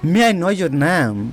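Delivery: very slow, each word laid out clearly; slow model sentence. Shown as a demonstration. Teacher modelling a phrase for students, very slow. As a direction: spell it out slowly for learners. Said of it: "इस तरीक़ा से बोलना है".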